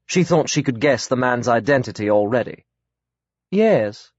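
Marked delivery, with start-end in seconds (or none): 3.5-4.1 a curt, clipped-off yes, higher. A narrator's reading. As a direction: cut him off coldly with one word. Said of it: "she said curtly".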